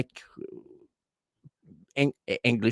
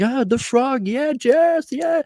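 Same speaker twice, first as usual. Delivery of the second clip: mock squealing fan cheer, much higher; imitating screaming fans; 4 dB louder, slower than usual. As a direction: call out his name like an excited fan in France. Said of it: "everybody's screaming".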